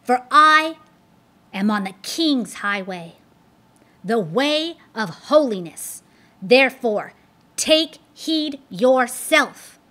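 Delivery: loud, slowing to a solemn warning; Christian defying Apollyon on the highway; firm defiance. Acted. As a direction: stand your ground and warn him. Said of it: "cried Christian".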